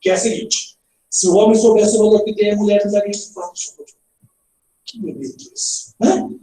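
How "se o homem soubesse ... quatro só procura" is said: the whole sentence run on with no pause at "mulher" or "tem"; unbroken reading, no comma heard anywhere; read without punctuation. Shown as a demonstration. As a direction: read straight through "que tem a mulher, não daria" without a break. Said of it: "vou ler pra você sem pontuação nenhuma".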